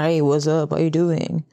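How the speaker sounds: lightly voiced cocky American guy; mock American rapper. Imitating a rapper hitting on her, mock swagger. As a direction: drop into a slick, lazy American greeting. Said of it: "Han är lite sån här".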